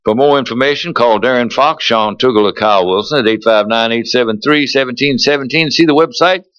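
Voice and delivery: radio ad announcer read; polished sponsor spot delivery. Acted. Reads a second stallion ad.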